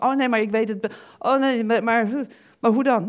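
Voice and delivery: a touch of worried doubter; imitating doubter. Preacher voicing a worried believer, a touch of panic. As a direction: panicky oh no, lightly voiced. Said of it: "dan zeggen van".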